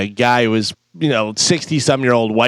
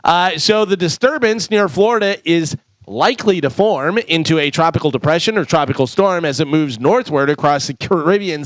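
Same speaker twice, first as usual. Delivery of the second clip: steady sponsor read, then the news. Acted. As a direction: read the ad and weather like a radio newscaster.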